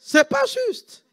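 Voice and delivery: very high, slow mock Asian accent. Preacher mocking the nurse's complaint, high mock Asian accent. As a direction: squeak it out high and drawn. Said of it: "avec l'accent asiatique".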